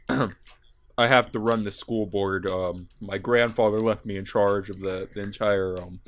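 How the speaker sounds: low, quiet anime dub voice; bad movie dubbing. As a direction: read it like a stiff English dub. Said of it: "here's my May".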